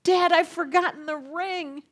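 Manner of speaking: high, urgent plea to her father; retelling a rising panic in the voice; panicky plea. Retold or imitated. Bride whispering to her father mid-ceremony, panicky.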